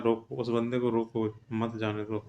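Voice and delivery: "रोको" set apart from "मत जाने दो"; pause after रोको. Shown as a demonstration. Teacher explains the meaning to students, breaking after "रोको". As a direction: make "रोको" the order, then a separate "मत जाने दो". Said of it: "रोको के बाद लगा दिया है".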